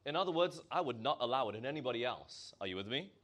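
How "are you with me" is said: normal talking voice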